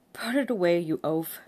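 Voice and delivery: loud stern rebuke; scolding superior. A narrator's reading. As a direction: snap at the oaf.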